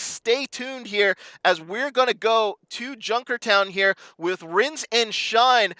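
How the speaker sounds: slow, drawn-out broadcast sign-off; announcer sign-off. Real, not acted. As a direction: draw out each word for the break. Sign-off before break.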